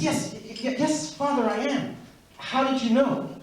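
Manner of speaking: panicked stammer. Retold or imitated. Yankel panicking when the priest asks if he is Jewish, stammering. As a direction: stutter out the yes like a caught kid. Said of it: "Yankel starts to panic".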